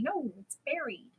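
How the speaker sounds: "buried" said BERRY-d, rhyming with "berry"; contradict, with "buried" sounding like "berried"; daughter's correction. Retold or imitated. Daughter keeps correcting parent, "buried" as BERRY-d. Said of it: "she keeps telling me".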